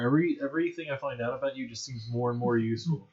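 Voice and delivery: sarcastic praise passed off as genuine. Acted. Player praises a companion as the character, extremely sarcastic. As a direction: gush with mock sincerity. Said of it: "I am being extremely sarcastic. My character is being completely genuine".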